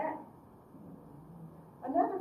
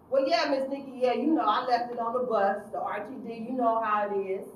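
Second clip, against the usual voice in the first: whiny youth; 3 semitones higher, 8 dB louder than usual. Retold or imitated. Teen pleading with his counselor about his lost check, loud and whiny. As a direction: whine it like a kid caught out.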